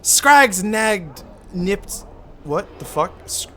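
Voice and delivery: Irish voice mocking an idiot; Irish accent. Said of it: "I gotta get Irish".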